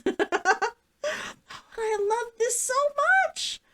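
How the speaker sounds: slow words through giggles; laughing gush. Real, not acted. Cooing over her outfit, laughing slowly.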